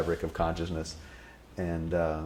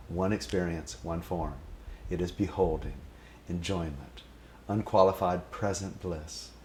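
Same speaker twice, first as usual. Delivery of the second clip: poem recitation. Pretend. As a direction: recite it devotionally.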